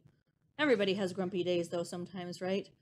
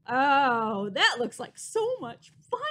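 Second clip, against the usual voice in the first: tiny squeaky mouse; 8 dB louder, slower than usual. Acted. Other mice exclaim, story quote.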